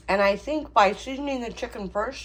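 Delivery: talking with food in mouth; mouth full. Real, not acted. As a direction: speak through a mouthful of food. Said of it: "sorry, my mouth is still full".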